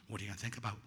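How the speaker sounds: low, soft nagging thought; quiet inner voice. Retold or imitated. Mind intruding on meditation, quiet inner voice.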